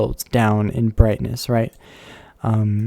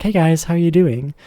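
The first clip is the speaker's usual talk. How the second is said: mock chat greeting; 2 semitones higher than usual. Shown as a demonstration. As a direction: playfully act out talking to chat. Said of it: "I have to be like this".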